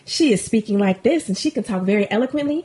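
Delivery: lightly imitated careful, proper speech; a touch of polished corporate diction; eloquent corporate voice. Showing how a rapper talks now, mock eloquent voice. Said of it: "now that she got more corporate jobs".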